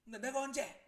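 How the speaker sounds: high, loud indignant denial; shouting mother. Acted. Mother denying she ever gave permission, shouting. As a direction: yell it back in disbelief. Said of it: "라고 엄마가 막 소리를 지릅니다".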